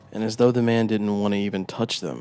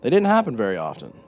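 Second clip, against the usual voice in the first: higher, louder, eager confession; proud storyteller voice; 4 semitones higher, 4 dB louder than usual. Acted. Narrator-character boasts to interrogator.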